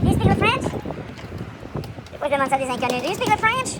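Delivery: put-on French accent English. Asks strangers in English.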